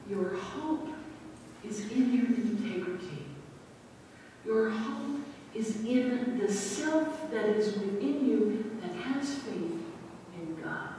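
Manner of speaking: calm counsel. Acted. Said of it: "very clearly said".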